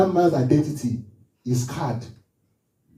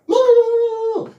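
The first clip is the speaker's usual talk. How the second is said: high, loud string of no; emphatic no; 5 dB louder than usual. Real, not acted. Preacher mocking endless crying, a high emphatic no. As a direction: shoot up high refusing it.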